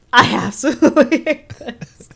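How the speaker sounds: hammed-up disgust breaking into laughter; mock loathing, laughing. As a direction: declare mock hatred through a laugh. Retold chef hating the challenge.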